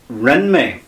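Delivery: "Rinme" said slowly and clearly, each sound drawn out; slow Irish demo. Shown as a demonstration. Teacher modelling the positive answer for listeners, said slowly. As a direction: spell out "Rinme" slowly for the learners. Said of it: "we say".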